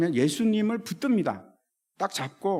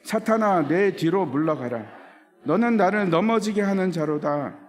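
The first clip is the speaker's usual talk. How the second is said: stern rebuke; 3 dB louder than usual. Retold or imitated. Jesus rebuking Satan, read aloud.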